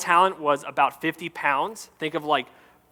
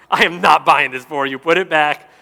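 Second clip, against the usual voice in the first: stern dad refusal; 7 dB louder than usual. Retold or imitated. Dad refusing daughters in store.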